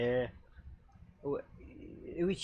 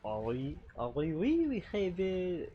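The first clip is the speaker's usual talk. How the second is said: put-on French accent; 4 dB quieter than usual. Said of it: "I'm so bad at that accent".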